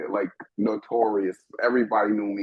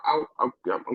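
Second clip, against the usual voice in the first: fighting back crying, higher; choked up; 5 semitones higher than usual. Real, not acted. Panelist moved while speaking about albinism, choked up. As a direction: voice catching on tears.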